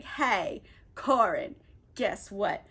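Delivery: a hint of man-disguise voice; woman posing as a guy. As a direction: play a casual fake dude, a bit low. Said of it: "she's disguised as a guy".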